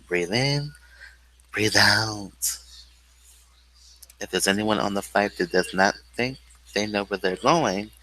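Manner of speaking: lightly voiced cabin crew reading safety instructions; calm in-flight announcement, a touch mock; flight attendant announcement. A mock flight attendant briefs passengers, lightly voiced announcement.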